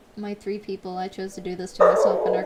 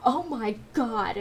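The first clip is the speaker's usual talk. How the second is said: fake panic; much slower than usual. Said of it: "I actually say that and I start panicking".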